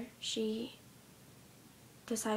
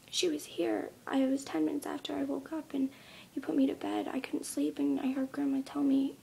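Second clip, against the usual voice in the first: lightly voiced child, pitched higher; insistent little girl; 3 semitones higher than usual. Little girl tells mom what she heard, mildly insistent. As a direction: plead the child's case, a little upset.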